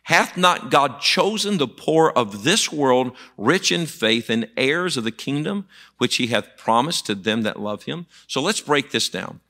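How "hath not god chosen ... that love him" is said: emphatic preacher's scripture reading, opening loud. Acted. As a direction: proclaim the verse, then ease off toward the end. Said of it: "it says this".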